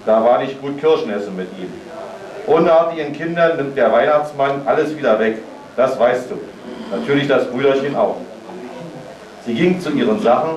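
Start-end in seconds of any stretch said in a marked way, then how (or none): 2.5-8.2 stern tone. Acted. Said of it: "im strengen Ton".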